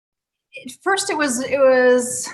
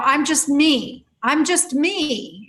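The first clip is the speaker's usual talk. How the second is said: higher, drawn-out mock protest; client's protest; 4 semitones higher, slower than usual. Client to practitioner during a session, mock protest. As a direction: stretch it slowly, imitating a stuck client. Acting out a puzzled client's repeated complaint.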